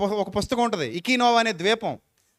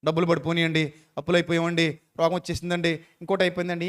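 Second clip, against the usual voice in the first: mock whining; 5 semitones lower, 3 dB quieter than usual. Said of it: "over react అయిపోకు".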